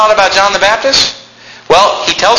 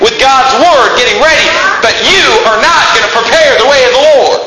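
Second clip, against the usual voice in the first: higher, voice of God speaking to John; God rebuking John the Baptist, raised and proclaiming; voicing God; 7 semitones higher than usual. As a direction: proclaim it as God addressing the prophet. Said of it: "God is saying here".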